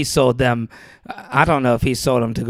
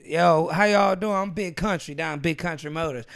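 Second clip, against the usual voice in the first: Big Country's fake accent; 3 semitones higher, 3 dB quieter than usual. Salesman hooking customers at Big Country Motors, fake country accent. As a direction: put on a folksy country-boy accent. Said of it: "but he faked this accent".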